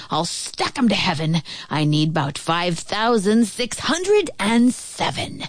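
lightly voiced affronted monarch; swooping, defiant vows; indignant turtle king. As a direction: rant with royal self-importance.

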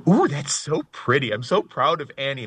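acting out awestruck, doting pride; gushing awe. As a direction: coo over it, retelling your own wonder. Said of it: "catch myself just staring and going".

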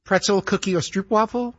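lightly imitated attendant offering snacks down the aisle; flight attendant singsong. Passenger imitating a flight attendant's mock singsong. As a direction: chant the snack list like a tired attendant. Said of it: "The things that they have to repeat".

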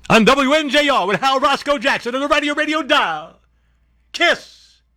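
high-pitched hammed-up station announcer; frantic mock DJ cry; screaming radio jock. Parody shouted station announcement.

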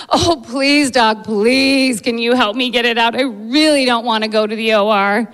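mildly begging patient; pleading. Retold or imitated. Patient begging doctor to avoid surgery, pleading. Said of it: "looks at me with pleading eyes".

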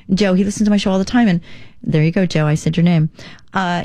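ordinary delivery

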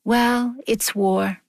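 offhand shrug, brushing it aside; dismissive. Retold or imitated. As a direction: toss it off like it settles everything. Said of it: "that familiar sentence would come".

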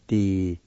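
"Di-ne-th-tin" in isolated syllables, H L sounded, O silent. Shown as a demonstration. Teacher showing the silent O, "Di-ne-th-tin" in separate syllables. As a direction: say "Di-ne-th-tin" piece by piece with an audible HL. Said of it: "you pronounce the H L sound".

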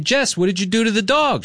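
high, frantic demand at Jess; retold frantic question to a friend; alarmed accusation. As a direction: demand answers in a panic.

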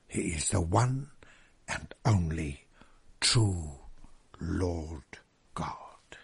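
hushed reverent whisper. Acted. Preacher to his congregation, whispering the holy name softly. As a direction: let it sink to a whisper on God. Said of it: "He said".

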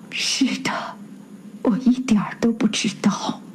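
soft, awkward, hushed reply; flustered answer. A narrator's reading. Christophe lies to the husband in a flustered hush. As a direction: lie quietly, embarrassed. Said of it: "克里斯朵夫不胜狼狈地回答".

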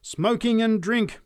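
high, loud, slow denunciation; slow, fervent street preaching; preacher's cry. A narrator's reading. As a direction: draw out the sins for the crowd. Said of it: "she continued".

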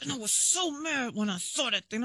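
mild mock-mad mom voice; imitating upset mom. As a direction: lightly act out a mother venting by phone. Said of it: "she'll call me and be like".

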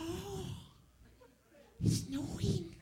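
put-on very high, soft girly voice; imitated girlfriend. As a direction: coo it in a tiny high falsetto. Imitating girlfriend excited by snow.

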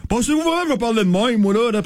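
A singer. Retold or imitated. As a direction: mimic a star talking in an interview. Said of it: "elle parlait comme ça".

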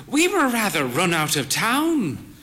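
a hint of the frail old lady; lightly voiced old mother. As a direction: tell it with proud drama. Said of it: "she said".

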